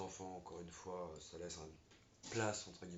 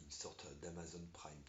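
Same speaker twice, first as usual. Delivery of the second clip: a quick confiding whisper, half to the partner; whispered aside; 5 dB quieter than usual. Real, not acted. Partner tells the film plot, drops a whispered joke.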